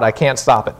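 ordinary talk, nothing marked

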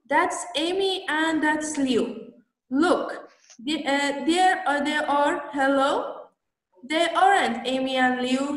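a teacher's careful demo read; slow model reading. Shown as a demonstration. Teacher reading the dialogue aloud for students to copy, slow and clear. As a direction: read each line slowly and clearly for the class. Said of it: "شما دقت کنین یک بار".

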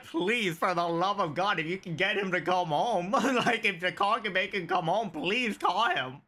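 hammed-up plea for help; mock pleading. Kid begging teacher to call his dad, mock pleading.

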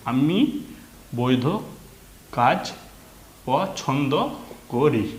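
measured word-by-word reading with clear gaps; reading-aloud demo. Shown as a demonstration. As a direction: model the sentence for learners, pausing after every word. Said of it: "এই হচ্ছে reading". (থেমে থেমে reading পড়া)

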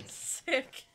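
normal talking voice

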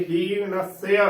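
ਹੀਣਸਯ as heen-as-seya, full doubled s; full pronunciation. Shown as a demonstration. Teacher says it must be spoken fully, full pronunciation. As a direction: fill out the s in ਹੀਣਸਯ. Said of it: "ਇਹਨੂੰ ਵੀ ਭਰ ਕੇ ਬੋਲਣਾ ਹੈ".

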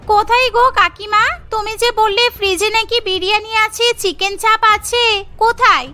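puzzled maid. Acted.

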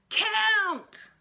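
put-on high, loud toddler yell; toddler shout. A narrator's reading. Fudge shouting at the dentist in a high toddler yell. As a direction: yell it like a stubborn little kid. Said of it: "Fudge shouted".

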